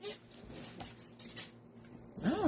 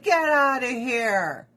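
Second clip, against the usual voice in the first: mock dismissive yell; 3 semitones higher, 5 dB louder than usual. Acted border patrol dismissing woman.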